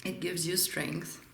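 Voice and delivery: slurping tea mid-sentence; words around a sip of tea; sipping hot tea. Real, not acted. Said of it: "I'm sorry for slurp-, slurping on my tea".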